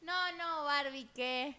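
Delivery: shocked disbelief. Real, not acted. Disbelief at news.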